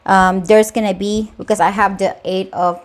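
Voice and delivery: out of breath from the stairs; breathless, catching breath between words; panting. Real, not acted. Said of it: "I'm panting 'cause I just run up the stairs".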